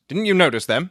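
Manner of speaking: sharp, impatient question. Acted. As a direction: cut in, losing patience. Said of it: "Holmes broke in impatiently".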